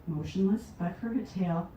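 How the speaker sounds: measured recital, phrase by phrase; poetry reading. Acted. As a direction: read it as a poem, leaning into openings and easing off. Reads her poem Escape.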